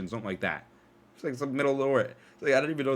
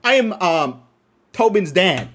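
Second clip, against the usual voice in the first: a louder, slightly higher put-on white dad; white dude voice; 4 semitones higher, 6 dB louder, slower than usual. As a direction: announce yourself like a stiff suburban father. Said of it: "I sounded like a white dude".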